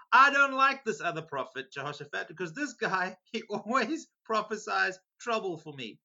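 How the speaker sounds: whiny king. Retold or imitated. Preacher mimics the king grumbling about the prophet, whiny and loud. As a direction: whine like a sulking king.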